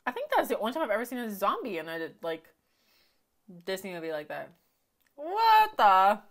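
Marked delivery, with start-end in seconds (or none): 5.2-6.2 high startled what the; sudden high gasp of surprise; surprised. Real, not acted. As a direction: caught off guard, voice jumps up. Surprised reaction to scene.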